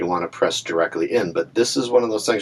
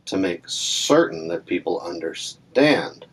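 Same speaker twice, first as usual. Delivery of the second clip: slow, weighted stress on CERTAIN and UNDERSTAND; emphatic stress; slower than usual. Shown as a demonstration. Teacher showing how speech emphasizes CERTAIN and UNDERSTAND, emphatic. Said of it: "moving my body to emphasize it".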